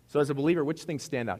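loud, high call to the congregation; emphatic question. Real, not acted. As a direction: push the question out to the room.

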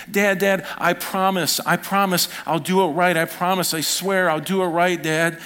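put-on high pleading child's voice; begging child. Boy begging his dad on the walk home, high pleading. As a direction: beg like a sorry little boy. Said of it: "And I remember saying".

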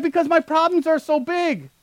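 high whiny complaint; hammed-up self-pity; whining. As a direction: whine like a big baby. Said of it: "I'm like".

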